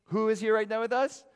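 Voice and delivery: high, loud, ringing question with a lift on us; ringing call. Shown as a demonstration. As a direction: cry it out to the room. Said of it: "repeated question building".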